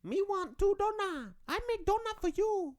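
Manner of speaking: very high, mocking Asian donut-shop clerk; hammed-up shop clerk speaking third person; imitated Asian accent. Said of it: "whenever I go up to the donut shops".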